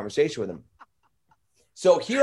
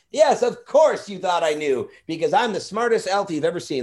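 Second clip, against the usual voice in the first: Chip the elf; 4 semitones higher than usual. Acted. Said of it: "his, his name was Chip".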